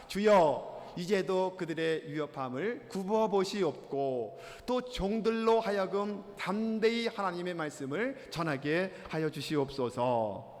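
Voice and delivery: slow, measured recitation of a prayer; scripture reading aloud. Acted. Preacher leads congregation reading the verse, slow measured recitation. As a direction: read it out deliberately for all to follow.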